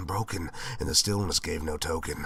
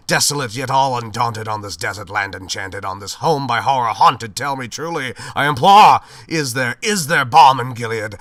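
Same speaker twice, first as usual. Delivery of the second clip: rising louder and higher, then sinking to a spent plea; building desperate plea; 5 semitones higher, 10 dB louder than usual. Acted. Narrator begging the raven for hope, rising to a loud cry.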